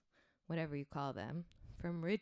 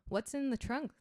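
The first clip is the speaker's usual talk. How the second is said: mock yell, pitched up; retold yell; 7 semitones higher, 3 dB louder than usual. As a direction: call out the question. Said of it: "they yelled".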